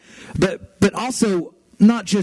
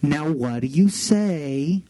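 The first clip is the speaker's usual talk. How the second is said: slow, drawn-out parental reminder; prompting mother; slower than usual. Retold or imitated. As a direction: lightly play a mom coaxing manners. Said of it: "hear your mother say".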